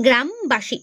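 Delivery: "গ্রামবাসী" said in two parts, গ্রাম and বাসী; syllable break. Shown as a demonstration. Teacher leading viewers to repeat along, "গ্রামবাসী" in two parts. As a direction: split "গ্রামবাসী" after গ্রাম. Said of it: "উচ্চারণ করো আমার সঙ্গে সঙ্গে".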